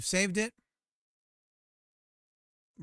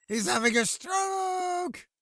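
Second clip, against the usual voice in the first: high, loud, slow laughing yell; shouted high through a laugh; 6 dB louder, much slower than usual. Real, not acted. Laughing outburst at the screen.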